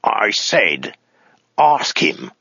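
whispered threat, rising on the order; menacing hiss. A narrator's reading. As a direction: hiss it through clenched teeth. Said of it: "he hissed".

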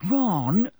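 high, sharp call of a name; sharp reproof. A narrator's reading. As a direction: cut in with a warning. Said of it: "said Hermione sharply".

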